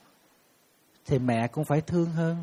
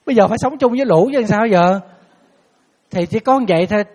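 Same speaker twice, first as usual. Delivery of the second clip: emphatic; 5 semitones higher, 9 dB louder than usual. Real, not acted. Emphatic point to audience.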